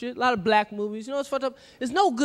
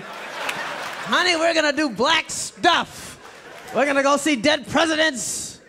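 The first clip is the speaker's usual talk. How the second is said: mock white husband; 2 semitones higher, slower than usual. White guy mimicking to wife.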